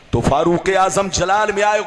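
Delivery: ordinary talk, nothing marked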